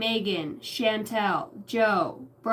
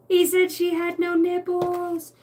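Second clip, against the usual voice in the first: 1 giggling; 8 semitones higher, 4 dB louder than usual. Real, not acted. Giggly quote.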